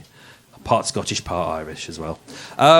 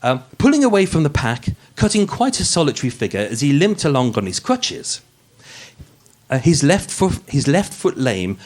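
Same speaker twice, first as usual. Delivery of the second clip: polished, posh narrator read; posh podcast voice. Acted. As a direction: read it like a true-crime podcast host putting on airs. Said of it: "the podcast voice".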